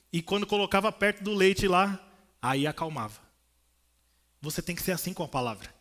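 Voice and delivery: usual speaking voice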